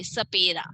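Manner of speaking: "सपेरा" opening on s, tongue at the teeth; "सपेरा" with a careful dental first sound. Shown as a demonstration. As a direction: model the s at the start of "सपेरा". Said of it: "दांतों से touch करते हुए".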